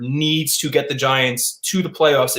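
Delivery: needs leaned on, slow and deliberate; slow, pointed stress on needs. Real, not acted. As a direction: hammer home the word needs. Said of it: "and I emphasize that word".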